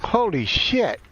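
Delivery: startled swearing. Real, not acted. Gamer reacting to the action, startled swearing. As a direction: blurt it out, caught off guard.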